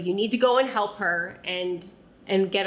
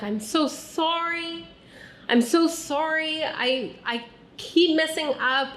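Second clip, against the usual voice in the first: a touch of a crying mom begging, high; tearful mother pleading; 4 semitones higher than usual. Retold or imitated. Mom cries to her child, mildly imitated tearful pleading. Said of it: "when she cries, she says things like".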